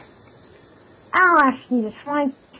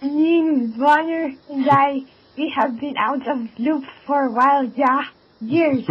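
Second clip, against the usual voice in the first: broken English, fake Swedish accent. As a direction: keep the bad Swedish accent going. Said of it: "with a fake Swedish accent still on".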